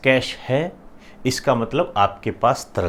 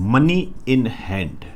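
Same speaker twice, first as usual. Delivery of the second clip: slow dictation; much slower than usual. Shown as a demonstration. Teacher dictates phrase slowly.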